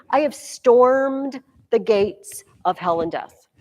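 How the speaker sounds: slow, emphatic proclamation of victory; lightly voiced conqueror, drawn-out key word; triumphant Christ. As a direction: declare the conquest slowly and firmly. Voicing Christ's conquest of hell.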